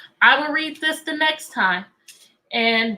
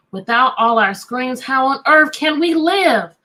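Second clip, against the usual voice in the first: storybook refrain. A narrator's reading. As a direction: draw out the rhyme like a picture book. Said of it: "story refrain read aloud".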